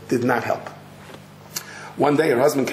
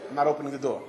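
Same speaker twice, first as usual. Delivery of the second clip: stubborn refusal; 7 dB quieter, much faster than usual. Retold or imitated. Husband behind door.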